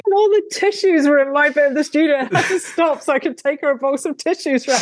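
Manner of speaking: telling it through real laughter, pitch jumping up; words spilling out between laughs; laughing while telling. Real, not acted. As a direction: giggle your way through the story. Laughing while telling the tissue story.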